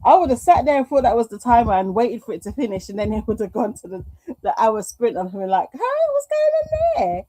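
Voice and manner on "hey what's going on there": mock confusion. Imitating her own confusion.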